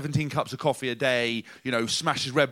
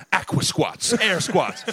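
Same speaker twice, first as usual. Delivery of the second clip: mock shouting; 4 semitones higher, 5 dB louder, much slower than usual. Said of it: "was running around going".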